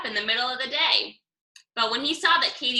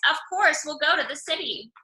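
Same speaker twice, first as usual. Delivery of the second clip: excited; 4 semitones higher than usual. Acted. Katie excited.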